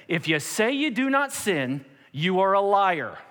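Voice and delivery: forceful, uncompromising verdict. Acted. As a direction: lay it down as absolute fact, ending slow. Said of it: "he was a man of say it like it is".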